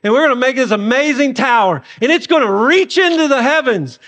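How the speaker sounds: hammed-up bragging voice; mock boasting. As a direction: puff it up like proud children bragging. Mocking the builders' boasting.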